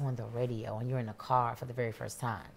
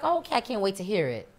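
retold eagerness; 6 semitones higher, 4 dB louder than usual. Retells mother's eager reaction.

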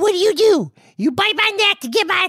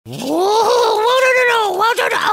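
panicked; 4 semitones higher than usual. Acted. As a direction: yelp your way through danger. Panicked trip through the kitchen.

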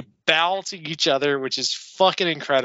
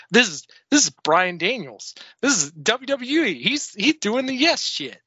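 rising higher and higher into excited disbelief; excited crowd; 7 semitones higher than usual. Retold or imitated. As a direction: sound like a crowd going wild as it builds. Tokyo crowd losing it.

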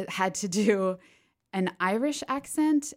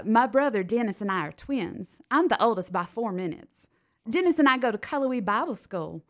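Southern accent; 4 semitones higher, 5 dB louder than usual. Shown as a demonstration. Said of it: "a thick country Southern accent".

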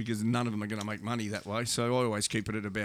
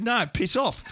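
gruff refusal; 9 semitones higher, 5 dB louder, slower than usual. Retold or imitated. Father refuses kids' autograph.

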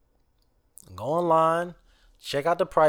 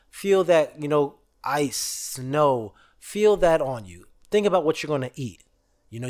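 guided visualization. Acted. Host guiding viewers to picture their dream vacation, gentle. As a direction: lead the listeners into picturing it.

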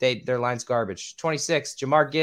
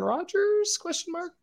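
mock question; slower than usual. Ironic aside after the pick.

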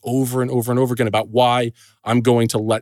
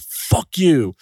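mild mock yell of bullies, a bit higher; retold yell; 5 semitones higher than usual. Bullies taunting from the street, mock yelled curse. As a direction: toss off a jeering curse, half-shouted. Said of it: "all three in unison yell out".

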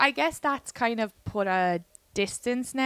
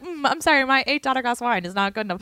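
higher, haughty wine snob; mock a fussy connoisseur; snooty voice; 4 semitones higher than usual. Mocking wine-sniffing snob.

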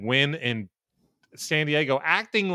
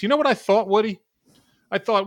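excited; 9 semitones higher, 5 dB louder than usual. Real, not acted. Excited recap to cohost.

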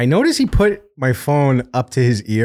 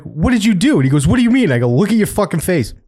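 higher, accusing disbelief; pitched-up mock interrogation; high incredulous quoting; 7 semitones higher, faster than usual. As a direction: act out catching him grinning. Quoted exchange with cousin.

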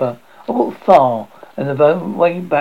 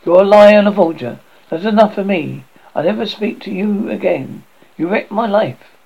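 raised, louder, accusing voice; angry denunciation; 4 semitones higher, 4 dB louder than usual. Acted. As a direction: throw it at her in fury. Husband denounces wife in anger.

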